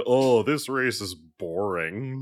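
slow, drawn-out mock complaint; mocking complainers. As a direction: imitate bored whiners, stretching the words. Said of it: "everyone who said".

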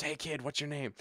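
imitated announcer's discreet murmur; retold whisper. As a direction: lean in and ask under your breath. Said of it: "he leans over and whispers".

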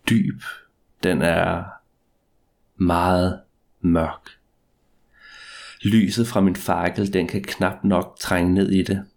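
ordinary delivery, nothing marked

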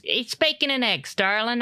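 sing-song fussy mom; sweet mom voice. Acted.

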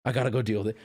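low, soft, defeated mumble; glum inner voice. Retold or imitated. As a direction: drag the words out, resigned. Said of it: "I'm looking at the floor and I'm like".

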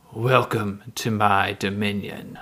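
low, deep alien overlord voice; booming voice. Acted. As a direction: boom it out like a monster lord. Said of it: "a big booming voice that says".

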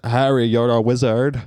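lightly put-on British accent, a bit punchy. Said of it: "That's my British accent".

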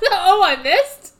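high, slow innocent voice; playing dumb. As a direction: say it like you missed on purpose. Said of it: "He says".

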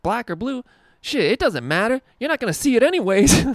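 high, loud, fast sassy teasing voice; sassy friend. Retold or imitated. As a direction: toss off the joke like a cheeky coworker. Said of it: "her, like, sassy black friend is like".

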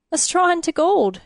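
high-pitched, amused scoff; laughing. A narrator's reading. Attendant to king about spinning gold, laughing disbelief. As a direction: toss it off as an absurd idea. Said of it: "Uther laughed".

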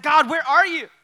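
high, loud desperate plea to God; frantic pleading, voice cracking upward; desperate Joshua. Retold or imitated. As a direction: cry out like a man abandoned by God. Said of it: "He's like".

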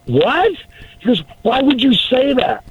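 high, sharp what; stunned and a bit hurt, voice shooting up; shocked disbelief. Retold or imitated. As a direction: son shocked his mentor says thank God he lost. Son shocked by reply.

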